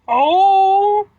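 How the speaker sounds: sudden high loud yelp; startled cry as it spills; surprised yelp. Real, not acted. Soda fizzing over.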